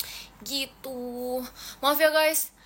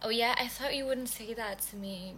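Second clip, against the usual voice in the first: mock hurt; 6 dB quieter than usual. Shown as a demonstration. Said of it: "Kasih, kasih tahu Auya".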